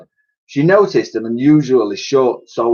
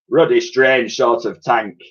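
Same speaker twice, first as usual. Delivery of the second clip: a hint of a gruff old sergeant; old soldier. A narrator's reading. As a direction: mutter it like a puzzled old soldier. Old soldier voiced in story.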